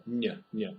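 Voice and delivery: ny like the n in new; soft n sound. Shown as a demonstration. Teacher isolating the ň sound. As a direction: soften ň as ny. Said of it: "make the English sound new".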